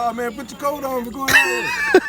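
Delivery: mock squeaky voice. Mock voice for cold weather.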